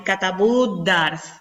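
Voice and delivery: "katabú dars" with the final U held long before the D; unwanted long vowel. Shown as a demonstration. Teacher showing what does not come out naturally, prolonged U. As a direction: stretch the BÚ of "katabú". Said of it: "no puedo decir".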